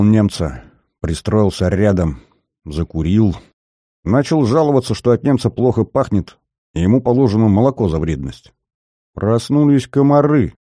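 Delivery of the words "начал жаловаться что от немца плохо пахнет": usual speaking voice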